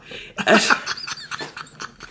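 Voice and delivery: high airy burst of laughter; breathy high laugh. Real, not acted.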